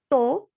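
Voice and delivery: "to" as a standalone second syllable; isolated syllable. Shown as a demonstration. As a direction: sound out "to" by itself. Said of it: "duas sílabas". ("to" dito como sílaba isolada)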